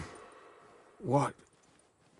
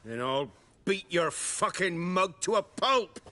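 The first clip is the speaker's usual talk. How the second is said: higher-pitched, rising outburst; angry threat; 5 semitones higher than usual. Acted. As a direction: threaten him as your temper breaks. Refused bribe, threatens to beat him.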